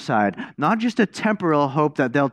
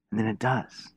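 hushed echo; 3 semitones lower, 7 dB quieter than usual. Shown as a demonstration. Preacher to congregation, repeating the storm's obedience, hushed. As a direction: repeat it softer, almost under the breath.

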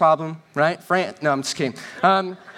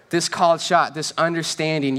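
ordinary talk

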